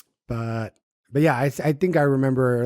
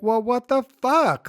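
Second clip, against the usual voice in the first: retold exasperation; 10 semitones higher than usual. Retelling exasperation at friends making up.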